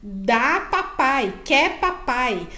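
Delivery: "dá papai, quer papai" very slowly, word by word; long held vowels in "dá papai, quer papai"; two-word phrase demo. Shown as a demonstration. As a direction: model "dá papai, quer papai" for a child to copy. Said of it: "frases de duas palavras".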